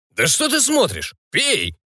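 rough pirate urging. A narrator's reading. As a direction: push him to drink. Pirate pushing the old man.

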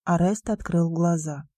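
ordinary delivery, nothing marked

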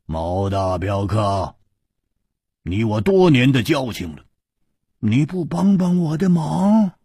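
teasing grin. Acted. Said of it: "笑嘻嘻地说".

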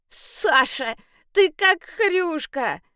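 high, slow mocking sing-song; teasing. A narrator's reading. Boy laughing at muddy Sasha, high mocking tease. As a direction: tease her like a gleeful kid.

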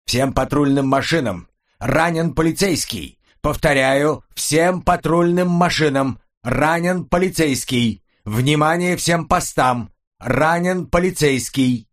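crackling dispatch alarm call; police radio. Acted. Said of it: "прозвучал сигнал тревоги".

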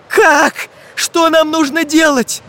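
high-pitched, urgent outcry; eager group question. A narrator's reading. Travellers all ask at once how to escape, urgently. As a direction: ask eagerly, stretching the words. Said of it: "спросили все одновременно".

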